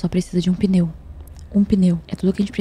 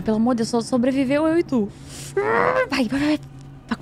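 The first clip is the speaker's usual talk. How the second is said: higher frantic pleading shout; desperate urging; 7 semitones higher than usual. Real, not acted. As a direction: beg it to go, go. Driving away, desperate.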